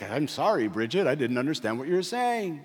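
lightly mimicked voice assistant; a hint of phone-assistant apology; Siri. Phone assistant answering his wife by mistake, lightly imitated. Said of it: "and Siri's like".

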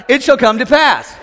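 congregation shout. Shown as a demonstration. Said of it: "Everybody shout".

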